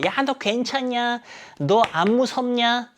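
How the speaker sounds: high, drawn-out mock call. Mia checking on Sophia in the boat, mock calling out. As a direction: call it out high and slow, without real volume. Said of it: "소리쳐요".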